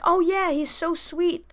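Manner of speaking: high, slow, drawn-out praise; imitated gushing grandmother. Grandmother vouches for the man, imitated high gushing voice. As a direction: gush it slowly in a high grandma voice.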